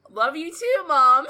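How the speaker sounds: put-on bubbly Valley Girl voice; chirpy Valley Girl daughter; Valley Girl accent. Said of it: "Valley Girl accent to a T".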